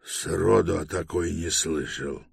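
mildly gruff grumble; grumbled. Acted. Sleepy Эблинг Мисс hears of Филианская Автархия, mild grumble. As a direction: grumble it in passing. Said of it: "буркнул Эблинг Мисс".

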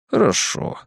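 calm, understated acknowledgment. A narrator's reading. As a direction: say it calmly. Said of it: "сказал глазастый спокойным голосом". (спокойным голосом)

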